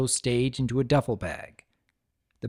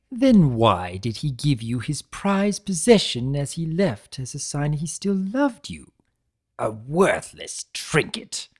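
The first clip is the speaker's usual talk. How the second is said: lightly raised, lively trickster lecturing a prisoner; Discord voice. Acted. Discord chiding Tirek for abandoning his brother, lightly voiced trickster.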